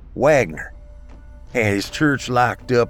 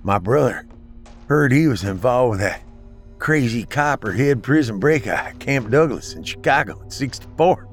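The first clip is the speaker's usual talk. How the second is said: slurred from a blow to the face; slurring; 4 semitones higher than usual. Acted. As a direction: slur the words, hurt and winded. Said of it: "slurring his words from a hit on the face".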